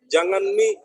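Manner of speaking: Kendari dialect "Jangan mi", lifted at the end; Kendari accent. Shown as a demonstration. Lecturer shows students the Kendari particle mi, Kendari accent. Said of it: "Itu logat Kendari ya".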